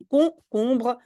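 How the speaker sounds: "concombre" said slowly with hard K sounds, kon-KOMBR; correct pronunciation. Shown as a demonstration. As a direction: draw out "concombre" with K. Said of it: "je prononce comme K".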